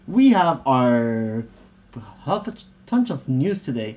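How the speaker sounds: halting, slow, tripping over the words; a little flustered. Real, not acted. Host fumbles the news rundown for his co-host, flustered. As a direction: stumble through the announcement, losing the thread. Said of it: "You sound a little flustered".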